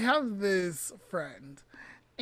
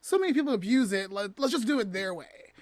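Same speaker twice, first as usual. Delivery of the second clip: mock resignation. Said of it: "they have this attitude of".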